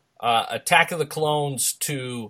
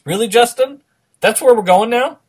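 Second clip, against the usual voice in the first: mock indignant; 9 semitones higher, 8 dB louder than usual. Real, not acted. Mock offense at listener jab.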